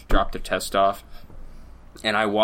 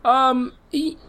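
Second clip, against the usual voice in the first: squeaky high protest; shrill high-pitched denial, much higher; high falsetto; 4 dB louder, much slower than usual. Pretend. Called a woman, protests in falsetto.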